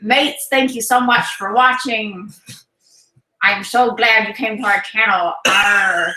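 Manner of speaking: lightly voiced pirate sign-off; slow, hammed-up pirate thanks. Wife ending the live stream for viewers, light pirate voice. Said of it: "talking like a pirate".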